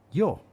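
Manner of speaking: "yo" said with a high zh sound; zh pronunciation. Shown as a demonstration. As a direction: raise "yo" and buzz the y like zh. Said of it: "o también".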